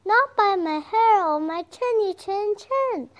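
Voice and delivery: high, loud defiant little pig. Acted. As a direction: refuse the wolf in a squeaky pig voice. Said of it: "said the little pig".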